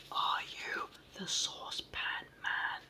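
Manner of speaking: slow, stretched-out whispered shout; whispered bawl. Acted. Hop bawling at the deaf saucepan man, in a loud whisper. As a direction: bawl it slowly but keep it a whisper. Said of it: "he bawled".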